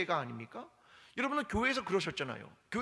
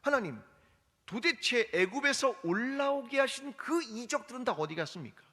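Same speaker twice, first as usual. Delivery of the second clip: complaining; 3 semitones higher than usual. Retold or imitated. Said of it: "라고 말한다는 겁니다".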